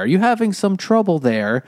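high, light imitation of a passing farmer; a hint of an Irish farmer asking kindly. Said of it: "an Irish farmer is like".

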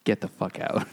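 hushed get out; whispered dismissal. Retold or imitated. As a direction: whisper it coldly. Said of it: "they're just like".

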